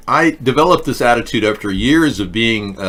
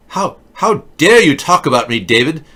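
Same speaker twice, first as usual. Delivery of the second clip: much higher and louder indignant cry; hammed-up accusing wail at David; mock furious teen calling out David; mock outraged Greta; 6 semitones higher, 5 dB louder than usual. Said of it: "Everything she says is angry".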